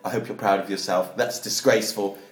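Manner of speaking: understated retold scolding; stern disapproval. Retelling a telling-off of monkey's owner, low-key disapproval. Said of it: "And I said".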